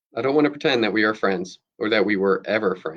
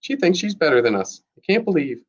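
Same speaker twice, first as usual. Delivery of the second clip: higher-pitched, offended schoolgirl complaint; indignant rant; 6 semitones higher than usual. A narrator's reading. Maddie complains about Lucy to the class, indignant. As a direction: protest high, mildly heated.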